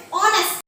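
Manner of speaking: honest with a silent H; correct pronunciation. Shown as a demonstration. Teacher asking pupils to listen, honest with silent H. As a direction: begin honest straight on "o", as "ON-est". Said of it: "the correct pronunciation of this word is".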